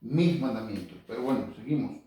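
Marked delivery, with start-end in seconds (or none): 0.0-1.0 contrastive punch on "mis"; stress on MIS. Shown as a demonstration. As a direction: hit "mis" firmly to correct a misreading. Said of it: "No dicen los mandamientos de Moisés". (énfasis contrastivo en «mis»)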